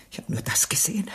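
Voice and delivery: barely voiced, hushed and numb; shocked whisper. Mother whispering to the inspector about the bloody stone. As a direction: breathe the words out as if the sight still haunts her.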